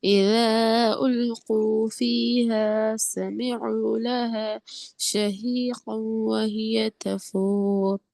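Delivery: very slow, drawn-out tajweed chant; Quran recitation. Shown as a demonstration. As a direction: stretch each word in a melodic recitation. Melodic recitation of the verse.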